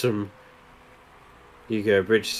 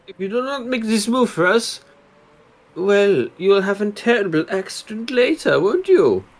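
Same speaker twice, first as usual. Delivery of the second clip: menacing villain voice; 9 semitones higher than usual. Pretend. Menacing driver in put-on voice.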